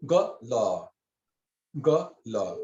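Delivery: gala as a short "ga" and a drawn-out "la"; long la, short ga. Shown as a demonstration. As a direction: sound out gala, brief "ga", long "la". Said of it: "la is pronounced long".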